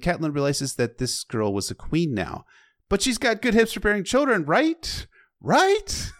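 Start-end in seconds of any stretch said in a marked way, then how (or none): 2.9-6.1 mock voice. Mock voice joking about hips.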